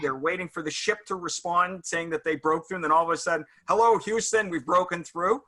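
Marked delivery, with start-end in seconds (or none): 3.7-5.4 retold breakthrough announcement from space; astronaut radio call. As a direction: call out to Mission Control in relief. Radio call from Apollo film, imitated.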